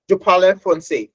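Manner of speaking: French phrase in a non-native accent. Shown as a demonstration. Showing off her French to the audience with a learner's accent. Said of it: "that is French with an accent".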